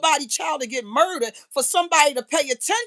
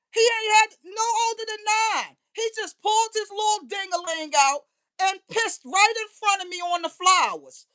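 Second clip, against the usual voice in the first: pitched way up in disbelief; incredulous; 8 semitones higher than usual. Real, not acted. Telling neighbors about the boy, high incredulous outrage.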